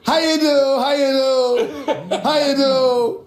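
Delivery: laughing greeting. Real, not acted. Greeting the hosts on air, laughing.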